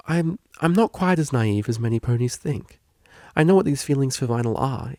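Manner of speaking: lightly voiced shy young mare; admitting feelings to her tutor, shy and halting; Octavia, hesitant.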